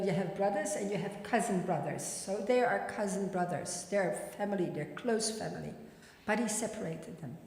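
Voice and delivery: ordinary talk, nothing marked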